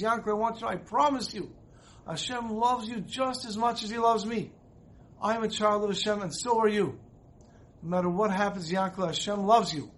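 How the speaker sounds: the Rebbe at the Kotel, pleading with Yankel, full of emotion; great emotion. Retold or imitated. The old Rebbe promises Yankel at the wall, emotional and earnest. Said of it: "with great emotion".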